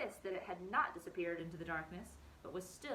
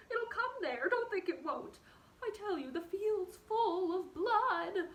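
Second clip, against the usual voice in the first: panicked; 10 semitones higher, 7 dB louder, slower than usual. Acted. Fiver panics, field full of blood.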